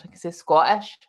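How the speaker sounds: the word Scottish said the Scottish way, as skwotish; Scottish accent. Shown as a demonstration. Asked for an example, she says Scottish in a Scottish accent. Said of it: "I can say Scottish in Scottish".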